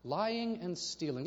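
slow reversed list. Shown as a demonstration. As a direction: turn the pair around slowly. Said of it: "stealing and lying".

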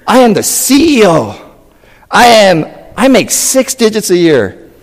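high, loud self-important bragging; boastful. Pretend. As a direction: puff yourself up as a big shot. Mimics boasting in our kingdom.

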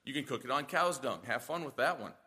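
a dry shrug of a concession, low and quiet; God conceding. Retold or imitated. Preacher voicing God granting Ezekiel a concession, low wry quiet. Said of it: "He's like".

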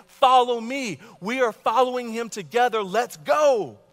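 rallying call. Acted. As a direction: call them forward with passion. Preacher voicing Christ's rallying call.

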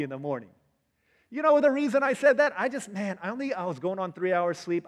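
high, loud mock self-justifying; acted excuse-making. Acting out someone making excuses.

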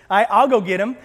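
acted boyish squeak; squeaky boy. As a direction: pipe up, stammering slightly at the start. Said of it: "he, he squeaks".

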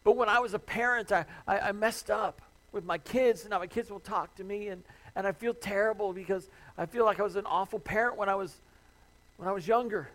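a hint of a distressed listener protesting; pleading objection. Listener confessing parental guilt.

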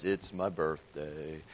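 low, slow, mopey donkey voice; gloomy Eeyore. Retold or imitated. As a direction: drag it out like a sad donkey. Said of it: "he goes up to Pooh Bear and he says".

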